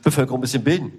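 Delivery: a hint of a vain king thinking aloud; pompous king. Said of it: "weil irgend so ein Kurfürst oder König rumgelaufen ist".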